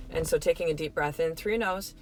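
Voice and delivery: a calm breathing exercise; guided breathing. Shown as a demonstration. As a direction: lead the breath calmly. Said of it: "and simply say".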